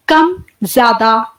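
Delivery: कम and ज्यादा drawn out slowly, breath swelling on ज्यादा; slow demonstration, कम light then ज्यादा fuller; slow breath demo. Shown as a demonstration. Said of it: "इस तरीके से सांस निकल रही है". (धीरे-धीरे कम, ज्यादा)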